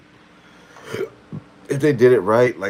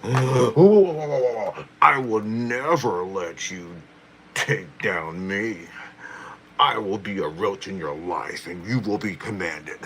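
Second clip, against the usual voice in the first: slow, drawn-out villain voice with gasps; Roach impersonation; slower than usual. Pretend. Streamer doing her Roach character for chat, hammed-up menace. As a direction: menace them like a hammy overlord. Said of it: "that's my Roach impersonation".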